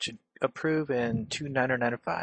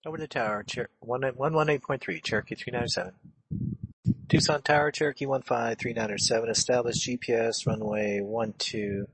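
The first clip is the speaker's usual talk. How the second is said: crackly military radio. Real, not acted. Pilot radio readback.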